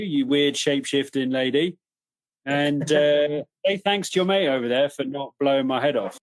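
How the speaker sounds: lightly voiced, matey wild dog, a bit put out; the dingo chatting to the party, nattering away; chatty dingo voice. A dingo complaining to the party about losing his pack, in a lightly voiced matey tone.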